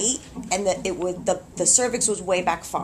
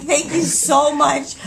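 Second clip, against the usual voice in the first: higher, louder, drawn-out thanks; deeply grateful; 6 semitones higher, 6 dB louder, slower than usual. Retold or imitated. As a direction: retell a heartfelt, emphatic thank-you. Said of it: "I was so grateful".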